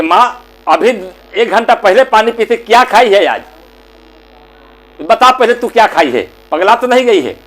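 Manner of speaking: a touch of indignant interrogation; mildly angry son. Acted. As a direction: son telling his mother off. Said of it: "गुस्सा आ गया".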